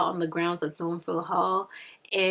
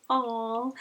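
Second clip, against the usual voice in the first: soft, higher-pitched coo; touched; 5 semitones higher, 3 dB quieter than usual. Retold or imitated. Reader reacts to the couple's cute kiss, touched. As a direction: melt at something cute.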